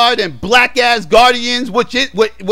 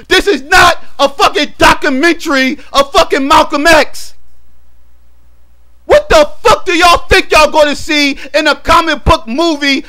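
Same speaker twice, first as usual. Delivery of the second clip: exasperated rant; 4 semitones higher than usual. Real, not acted. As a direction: chew them out, fed up and incredulous. Ranting at confused fans.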